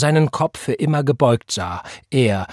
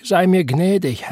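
moaning; 7 semitones higher than usual. A narrator's reading. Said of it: "Wieder stöhnte er".

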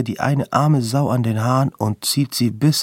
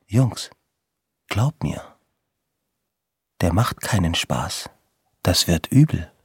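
lowered Godfather voice; 3 semitones lower than usual. Retold or imitated. Older guy warning the boys, lowered mock Godfather threat. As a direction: lean in and play the Godfather. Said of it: "senkt die Stimme ... Pate-Psychonummer".

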